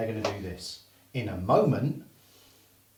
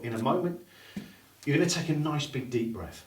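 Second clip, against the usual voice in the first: hypnotist patter; 2 semitones higher than usual. Shown as a demonstration. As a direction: lull them with each word. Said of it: "See people doing that there".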